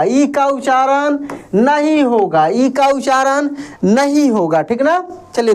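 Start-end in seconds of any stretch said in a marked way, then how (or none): 0.0-2.5 ई given the weight, the rest falling away; teacher stressing ई in ई का उच्चारण नहीं होगा. Shown as a demonstration. 2.5-4.6 नहीं hit firmly, then a falling close; teacher stressing नहीं in ई का उच्चारण नहीं होगा. Shown as a demonstration.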